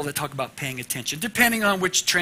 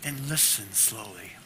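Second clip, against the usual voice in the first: put-on child's reply; 9 dB quieter than usual. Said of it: "And she said".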